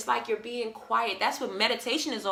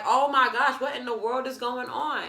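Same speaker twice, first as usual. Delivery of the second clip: laughing and louder, mock bewildered; laughing disbelief; 3 semitones higher, 4 dB louder than usual. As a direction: laugh through an amused oh my gosh. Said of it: "And I was like".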